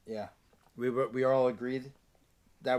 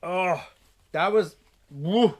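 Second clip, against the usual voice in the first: slow strained reeling voice; reeling from sourness; 5 semitones higher, 7 dB louder, much slower than usual. Real, not acted. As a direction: breathe out the burn. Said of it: "My nose is running".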